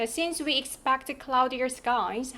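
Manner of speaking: slow read, "skies" lifted at the end; rising intonation. Shown as a demonstration. Teacher models the forecast for students, rising on "skies". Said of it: "하면서 올려주시면".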